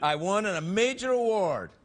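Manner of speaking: slow, around a pipe stem; pipe in mouth. Real, not acted. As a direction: say it with a pipe in your teeth. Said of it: "every time I put this pipe in my mouth".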